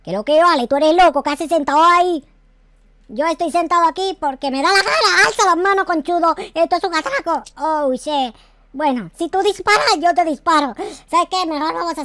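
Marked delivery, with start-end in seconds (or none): 0.0-7.4 loud and threatening, gun drawn; loud holdup threats. Acted. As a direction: bark the robbery demand. Holdup confrontation.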